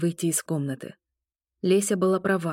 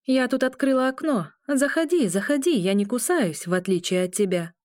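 mocking; 6 semitones higher than usual. A narrator's reading. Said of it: "насмехалась надо мной".

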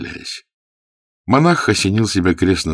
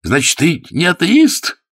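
astonished question; 13 semitones higher, 6 dB louder, slower than usual. A narrator's reading. Bevil's astonished follow-up.

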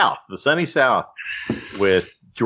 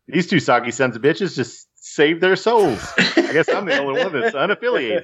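higher-pitched movie-quote patter; George Clooney; 6 semitones higher than usual. Acted. Host quoting a favorite line from Oh Brother, hammed-up impression. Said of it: "trying to channel George Clooney from Oh Brother".

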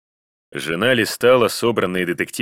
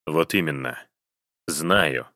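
scoffing husband; 3 semitones lower, 4 dB quieter, slower than usual. A narrator's reading. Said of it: "хмыкнул он".

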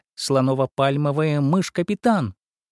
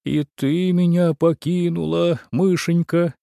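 mock crying; 5 semitones higher than usual. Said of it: "заплакало чудовище".

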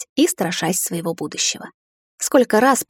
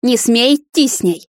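higher forbidding cry; raised, insistent command; urgent demand; 4 semitones higher, 4 dB louder than usual. A narrator's reading. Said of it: "потребовала свекровь".

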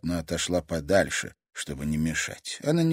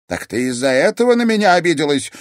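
much higher and louder, exclaiming then pleading; exclaiming grandmother; upset grandmother; 10 semitones higher, 10 dB louder than usual. Acted. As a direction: defend the lie out of love. Grandmother justifies herself.

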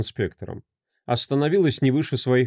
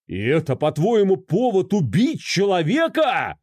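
furious shout; 7 semitones higher than usual. Acted. An enraged husband shouts at his wife, furious. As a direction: hurl the question at her. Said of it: "закричал он вне себя от ярости".

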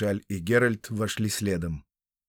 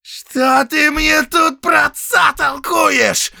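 loud, much higher shout; flaring up; 9 dB louder, slower than usual. Acted. Count flaring at his steward, furious shout. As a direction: explode at the steward. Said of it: "взвился он".

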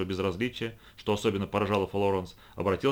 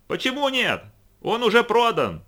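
shouting; 13 semitones higher, 6 dB louder than usual. A narrator's reading. Brad and Quota yelling over the roar, loud shout. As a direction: bellow over the din. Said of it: "оба они орали во всё горло".

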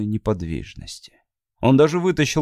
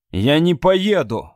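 slow, sharp correcting tone; sharp correction; 4 semitones higher, slower than usual. Acted. Matt sharply correcting Abby's wording. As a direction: set her grammar straight. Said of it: "резко поправил её Мэтт".

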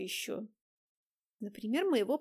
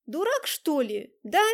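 slow, louder reproach; angry scolding; 4 semitones higher, 7 dB louder, slower than usual. Acted. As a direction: scold him crossly. Дайнека сердито смотрит на Влада. (сердитый упрёк)

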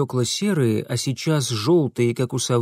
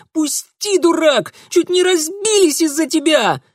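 high, loud furious squeal; 6 dB louder than usual. A narrator's reading. Darinka squealing angrily, blaming Mitya. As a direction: squeal and blame him. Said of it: "заверещала Даринка".

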